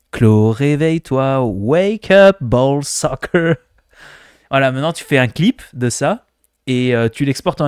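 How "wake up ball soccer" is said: alarm call. Pretend. Viewer asks for a wake-up alarm, drawn-out mock English call. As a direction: sing it out like a morning alarm. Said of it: "je veux le ball soccer comme réveil matin".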